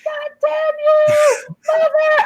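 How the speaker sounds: furious scream. Retold or imitated. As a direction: scream at the ship's computer.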